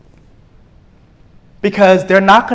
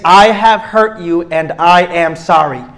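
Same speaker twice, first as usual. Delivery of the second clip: slow and earnest; the one acceptable answer, slow and sincere; sincere apology; slower than usual. Shown as a demonstration. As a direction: own it plainly. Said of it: "the only acceptable response is".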